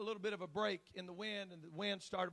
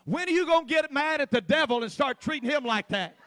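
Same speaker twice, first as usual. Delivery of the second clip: louder and higher, a rousing retold challenge; 6 semitones higher, 12 dB louder than usual. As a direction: throw the question out hard at them. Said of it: "I said".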